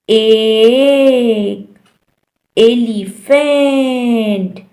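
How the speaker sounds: "eh" vowel drawn out in "एक"; short E examples. Shown as a demonstration. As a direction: stretch "एलिफेंट" slowly to teach the sound. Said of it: "ई का short sound है".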